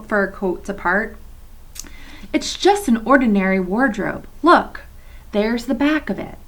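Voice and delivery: put-on reading aloud to children, steady and clear; story narration. A narrator's reading. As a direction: read the chapter like a teacher at story time. Teacher reads novel to class.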